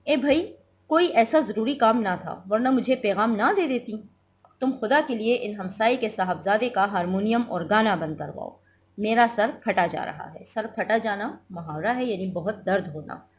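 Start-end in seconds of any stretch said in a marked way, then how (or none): 0.1-10.4 a touch of an irritated husband; lightly voiced sick husband, annoyed; husband's complaint. Teacher reads husband's lines in play. (चिढ़े हुए मियाँ का हल्का लहजा)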